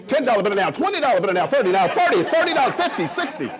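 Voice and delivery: mock auctioneer. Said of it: "so I'm gonna talk real fast".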